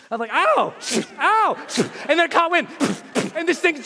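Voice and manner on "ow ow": pained yelps. Retold or imitated. Strap whipping head, acted pain.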